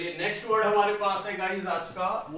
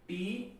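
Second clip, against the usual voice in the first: 'टी' alone as the middle syllable; syllable split; 3 semitones higher, 6 dB quieter than usual. Shown as a demonstration. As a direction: set 'टी' apart with pauses round it. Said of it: "एक चला गया". ('टी' को अलग से बोलें)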